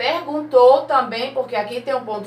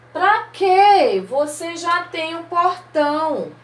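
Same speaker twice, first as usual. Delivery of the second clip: mother's reply; 6 semitones higher, slower than usual. Acted. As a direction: answer as the mother, a bit indignant. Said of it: "E a mãe responde". (mãe respondendo, voz mais alta e enfática)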